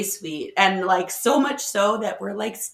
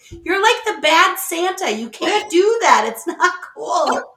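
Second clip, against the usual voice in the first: mock scolding; 9 semitones higher, 6 dB louder than usual. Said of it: "I'm like".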